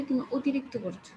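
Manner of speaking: অতিরিক্ত starts with a rounded ও, as otirikto; rounded vowel. Shown as a demonstration. Teacher to class, showing অতিরিক্ত with a rounded start. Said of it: "আমরা কিন্তু একটু গোল করে বলি".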